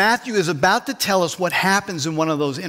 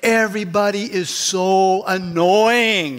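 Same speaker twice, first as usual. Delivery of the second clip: fed-up grumble; slower than usual. Retold or imitated. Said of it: "you know what your summary is?".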